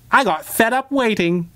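high, bright-voiced grinning villain with a wide grin. A narrator's reading. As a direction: sing out the apology like a grinning little menace. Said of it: "he said with a grin".

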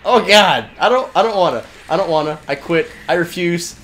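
high panicked yelps of refusal; panicked yelling. Real, not acted. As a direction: yell in game panic. Panicked player facing enemy attack.

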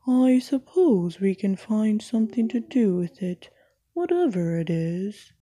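resigned and mopey, like nothing ever works out; moaning Eeyore. Acted. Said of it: "moaned Eeyore".

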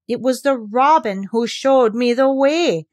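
stubborn, slow insistence; girl stubbornly defending herself; obstinate protest. Acted. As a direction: dig in your heels, slowly. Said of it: "she protested. obstinately".

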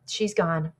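softly quoted, subdued. Retold or imitated. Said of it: "in a quieter voice".

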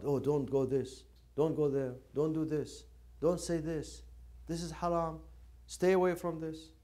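mocking strict scholars. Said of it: "This is how they say".

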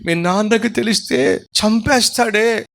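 slow, high worried warning; frightened mother. Retold or imitated. Mother warning her daughter about the father, frightened. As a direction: warn her in a scared hush-hush tone.

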